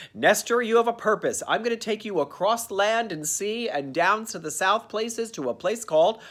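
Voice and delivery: lightly voiced little girl cherub; a hint of a sweet child angel. Cherub Tilly telling Nestor his purpose, lightly girlish. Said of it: "she sounds like a little girl".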